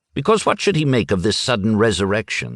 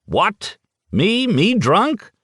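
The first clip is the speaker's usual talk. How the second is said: higher, outraged disbelief; mock-offended old man, pitched up; indignant snort; 11 semitones higher, much slower than usual. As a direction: play the old drunk stung by the charge. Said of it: "The old man snorted".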